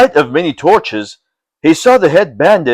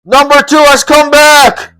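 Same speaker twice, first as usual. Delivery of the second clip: high, louder call from outside; exclaiming; 11 semitones higher, 4 dB louder than usual. Acted. Voices outside announcing the lieutenant's return, exclaiming. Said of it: "Voices outside exclaimed".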